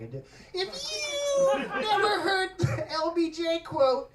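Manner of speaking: hammed-up rapper growl shouting the quote; rapper impression. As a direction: bark it out like a hype rapper. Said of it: "That's my rapper impression".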